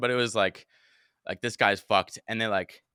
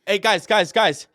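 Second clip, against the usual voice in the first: raised, high call for attention; urgent hailing of passing cops; 7 semitones higher, 5 dB louder, slower than usual. Retold or imitated. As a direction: shout to get the cops' notice. Calling out to approaching cops.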